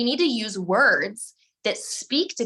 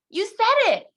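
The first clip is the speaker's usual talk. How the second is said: "said" hit much higher and louder; stress on said; 11 semitones higher, 5 dB louder than usual. Real, not acted. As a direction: drive the word "said" home. Pinning blame on listener.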